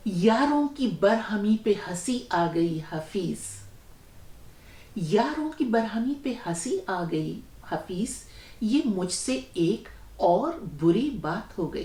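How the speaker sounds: measured, paused verse delivery; closing couplet recitation. Acted. Host giving the ghazal's final couplet, poetry recitation. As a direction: recite the couplet, repeating its first line.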